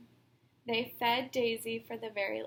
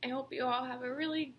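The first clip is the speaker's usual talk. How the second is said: holding back tears; faster than usual. Real, not acted. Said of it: "I'm trying not to cry".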